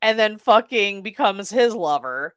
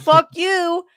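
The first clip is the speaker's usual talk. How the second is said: defiant; 9 semitones higher, 5 dB louder than usual. Retold or imitated. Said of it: "She's like".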